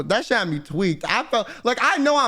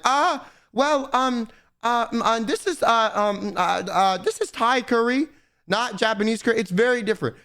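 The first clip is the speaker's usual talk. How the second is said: hesitant, stumbling waitress voice; stalling waitress. Retold or imitated. Retelling the waitress stalling over curry, fumbling mock voice. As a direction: fill every gap with uh and um. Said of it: "a soft reset".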